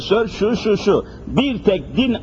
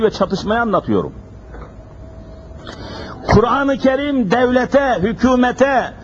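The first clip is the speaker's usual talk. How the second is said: high, ringing pulpit preaching; fiery preaching; 5 semitones higher than usual. Acted. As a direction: preach it out to the congregation. Sermon raised to full force.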